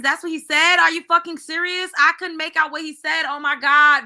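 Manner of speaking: high-pitched, real incredulous outburst; shocked disbelief. Real, not acted. Host learns what the father said, shocked disbelief.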